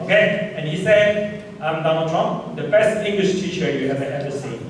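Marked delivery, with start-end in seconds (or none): 1.6-4.6 mildly boastful impersonation of a politician; proud Donald Trump. Acted. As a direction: read it out with a touch of swagger. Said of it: "Okay, very proud".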